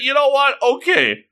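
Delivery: high-pitched, perky agreement; acted upbeat acceptance; sudden resolve. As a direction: make up your mind brightly.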